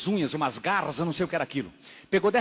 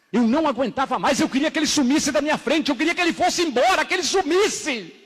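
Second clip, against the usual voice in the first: high, insistent testimony, building; impassioned preaching; 10 semitones higher, 4 dB louder than usual. Real, not acted. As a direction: pile up the wishes, pitch climbing. Preaches at full force.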